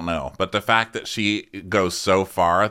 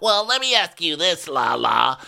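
higher, pointed imitation of a challenger; mock Sandoval; 7 semitones higher than usual. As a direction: needle her with a question. Voicing Sandoval in recap.

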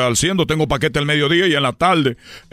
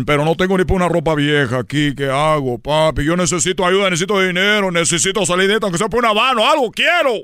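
pleading; 3 semitones higher than usual. Retold or imitated. Pleading to father's image.

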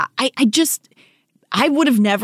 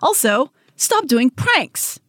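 scolding; 10 semitones higher, slower than usual. Acted. Scolding prank parents.

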